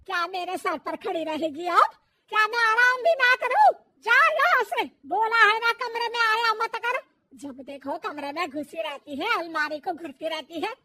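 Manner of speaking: loud, harsh yelling; mother-in-law throwing daughter-in-law out; angry yelling. Acted. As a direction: yell her out of the room. Mother-in-law yells, sends her away.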